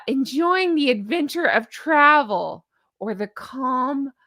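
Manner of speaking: hammed-up sweet ad-copy voice; mock newsletter read. Reading a celebrity's newsletter aloud, mocking sweetness. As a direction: read it like syrupy marketing copy.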